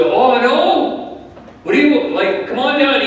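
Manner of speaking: high, startled cry of alarm. Retold or imitated. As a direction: jump up in a worried father's panic. Father hears son shot thumb.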